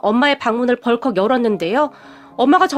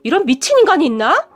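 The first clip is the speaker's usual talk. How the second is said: higher and louder angry shouting; furious outburst; 4 semitones higher, 3 dB louder than usual. Retold or imitated. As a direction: yell in outrage at the slap. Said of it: "흥분을 한 채 소리를 질렀고". (흥분해서 높고 크게 소리 지르기)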